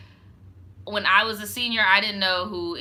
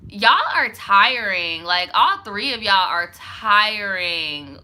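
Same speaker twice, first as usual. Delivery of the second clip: exasperated; 6 dB louder, slower than usual. Real, not acted. Slow exasperated emphasis.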